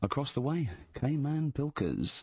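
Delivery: smooth mainstream DJ link; radio DJ voice. Shown as a demonstration. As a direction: announce it like a slick radio presenter. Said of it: "I'm gonna announce it right and everything".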